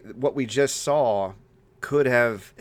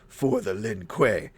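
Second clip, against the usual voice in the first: solemn battle cry; much slower than usual. Retold or imitated. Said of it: "he's like".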